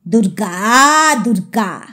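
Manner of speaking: mild frightened muttered prayer; startled prayer. Acted. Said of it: "চমকে দুবার".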